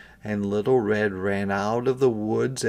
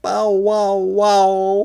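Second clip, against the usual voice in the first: loud gruff barking bow wow; dog barking; 8 semitones higher, 7 dB louder, much slower than usual. A narrator's reading. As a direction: bark it out like farm dogs. Dogs barking in story.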